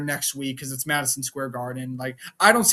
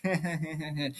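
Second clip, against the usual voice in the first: imitated laugh; 9 dB quieter than usual. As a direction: softly mimic a wrestler's laughing fit. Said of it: "Roman was like".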